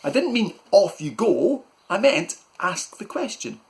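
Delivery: very high, loud, slow panicked shout; shouting after him. Acted. Uncle shouting after Malcolm leaving, very high and loud. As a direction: call him back down the hall. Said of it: "Uncle Gob shouted after him".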